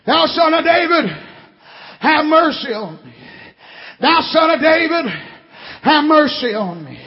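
blind beggar's plea, lightly voiced; measured, preached cry for mercy; retold cry for mercy. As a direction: call out with each phrase falling away. Retelling the blind man's cry to Jesus.

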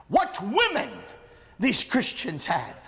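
measured awe, lifted then falling away; quoted exclamation. Retold or imitated. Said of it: "And Libanius exclaimed".

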